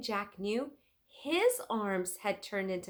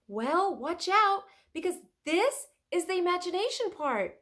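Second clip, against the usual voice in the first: put-on playful girl voice, much higher; playful warning; 11 semitones higher, 6 dB louder than usual. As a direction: warn him with mischief. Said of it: "said Annie".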